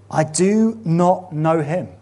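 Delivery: slow, deliberate denial; Peter denying. Acted. Peter's final denial to the crowd, slow and deliberate. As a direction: spell out the denial slowly. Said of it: "says Peter".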